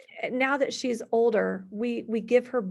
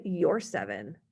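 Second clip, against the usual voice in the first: sarcastic echo; 5 semitones lower, slower than usual. Retold or imitated. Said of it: "being sarcastic".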